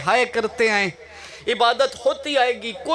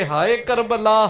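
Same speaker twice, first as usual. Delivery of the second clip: mournful wail; 2 semitones lower, slower than usual. Retold or imitated. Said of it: "रो के कहते थे".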